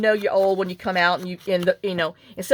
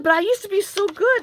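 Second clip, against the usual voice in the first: lightly voiced friend whining, pitched higher; a hammed-up higher wail of lost glory; mock lament; 13 semitones higher, 4 dB louder than usual. Friend mourning her lost dance moves, mock whiny higher voice. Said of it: "she said".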